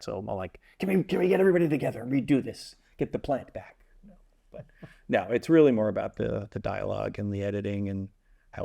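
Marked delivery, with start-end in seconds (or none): 0.8-3.8 quick, lightly acted fussy director; picky director. Picky director calling everyone back for a retake, mildly fussy. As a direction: rattle off a retake request, slightly pitched up. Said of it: "I'm very picky when it comes to stuff".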